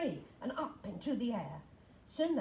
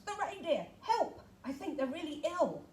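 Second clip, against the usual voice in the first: Santa shouting; 5 semitones higher than usual. Acted. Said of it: "Santa shouts".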